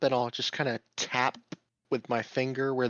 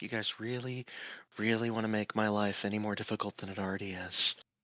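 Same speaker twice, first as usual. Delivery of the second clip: muttered, grumbling, lower and quieter; 4 semitones lower, 7 dB quieter than usual. Player's character coming up behind the group, muttering under breath. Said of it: "muttering under my breath".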